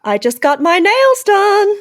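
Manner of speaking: put-on American accent. The speaker doing an American voice for the podcast idea. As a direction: put on a ditzy American drawl. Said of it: "Kiara talking American".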